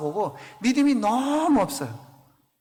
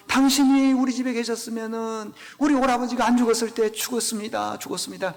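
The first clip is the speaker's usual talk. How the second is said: tearful plea; 3 semitones higher than usual. Retold or imitated. Mary kneeling before Jesus, mild tearful plea. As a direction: let the grief drain the voice as the words repeat. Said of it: "무릎을 꿇고 울면서".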